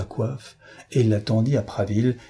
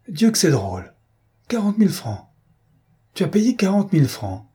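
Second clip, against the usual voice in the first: roaring amusement; 9 semitones higher than usual. A narrator's reading. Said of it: "Dobrec eut un rire formidable".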